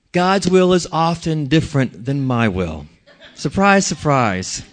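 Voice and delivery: chuckling through the words; laughing. Real, not acted. Preacher admitting to congregation, laughing. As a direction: laugh it off lightly.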